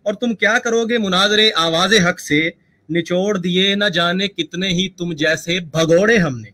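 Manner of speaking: mushaira-style poetic delivery; verse recitation. Shown as a demonstration. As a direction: declaim a taunting couplet. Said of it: "थोड़ा सा add on कर देते हैं".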